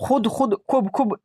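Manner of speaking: खुद and खूब with short, quick vowels; not drawn out. Shown as a demonstration. Teacher shows the reading to avoid, खुद and खूब kept short. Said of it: "नहीं कर रहे हैं".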